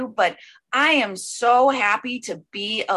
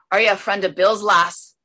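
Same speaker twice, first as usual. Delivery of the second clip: put-on thick Irish accent. Irish woman asks a stranger about a friend of Bill's, imitated thick Irish accent. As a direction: quote her in a thick Irish brogue. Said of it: "I hope I didn't butcher that accent".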